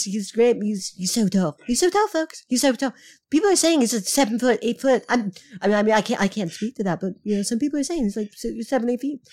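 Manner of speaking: lightly voiced rambling politician impression; Donald Trump. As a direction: do a loose Trump impression, repeating yourself. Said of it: "doing it in a Trump impression".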